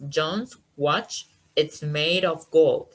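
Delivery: slow example with emphasis on "gold"; stress on gold. Shown as a demonstration. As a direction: lean on the final word "gold". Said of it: "emphatic stress is on the word gold".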